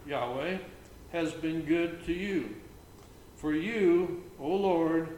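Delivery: measured, slowed psalm reading; solemn psalm reading; scripture reading. Acted. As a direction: read it like a lectern reading. Reads psalm aloud.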